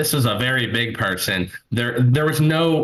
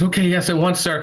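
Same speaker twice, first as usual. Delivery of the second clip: higher, hurried-to-please reply; weirdly servile; 6 semitones higher than usual. Retold or imitated. Kid behind the counter obeying a scary customer, nervously servile. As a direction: imitate a nervous server obeying.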